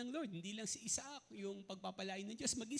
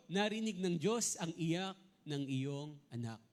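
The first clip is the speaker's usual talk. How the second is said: voicing the angel; 7 dB louder than usual. Angel's words read to Hagar.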